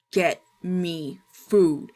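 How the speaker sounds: slow, loud, menacing growl; menacing monster voice. Acted. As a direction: demand it like a starving monster. Monstrous grandpa demands again.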